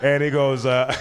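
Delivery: breaking into laughter mid-story; can't stop laughing while telling; cracking up. Real, not acted. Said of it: "we're cutting this out".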